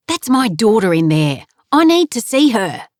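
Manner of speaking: rising pleas that break high at the end; distraught father demanding to get in; desperate insistence. Acted. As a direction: push past the nurse, voice climbing. Father arguing with nurse.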